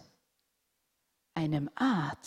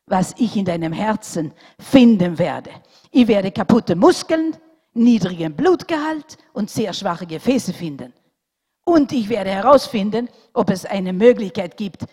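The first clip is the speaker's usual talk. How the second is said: louder, exasperated lecturing; doctor losing patience with the boy, louder and curt; fed-up doctor; 3 semitones higher, 9 dB louder than usual. A narrator's reading. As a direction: lay out the facts with sharp impatience. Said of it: "Da hatte der Arzt genug".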